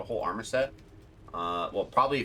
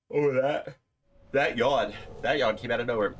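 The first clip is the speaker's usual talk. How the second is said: surprised; 6 semitones higher, 7 dB louder than usual. Real, not acted. Enemy suddenly appears.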